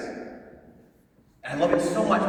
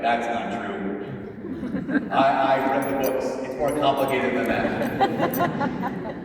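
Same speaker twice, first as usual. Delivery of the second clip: mock skeptic; much slower than usual. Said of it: "Some of you are thinking".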